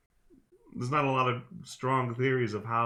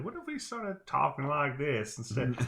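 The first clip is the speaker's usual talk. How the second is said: lightly exaggerated new American accent, pitched up; put-on American accent; 4 semitones higher than usual. British-sounding Americans inventing an accent, put-on American accent. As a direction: try out an American accent as a joke. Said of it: "two British sounding Americans talking to each other".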